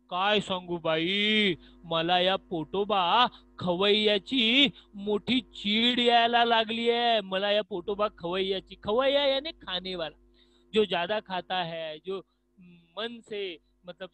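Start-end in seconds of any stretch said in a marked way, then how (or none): 0.1-8.8 slow, loud complaining about the glutton belly; annoyed tongue. Acted. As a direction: sigh out your irritation with the stomach. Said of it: "जीवाताई काय म्हणते बघा".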